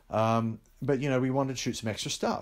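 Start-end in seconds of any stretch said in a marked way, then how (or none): 0.1-0.2 high rising "ooh" of reluctance; acted reaction noise. Director saying what he'd have gone, high reaction noise. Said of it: "then I would have gone".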